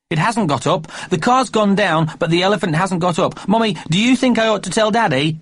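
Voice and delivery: put-on high, eager little boy; a small boy calling his mother; child's voice. A narrator's reading. Young Jeremy James calling to busy Mummy, high child voice.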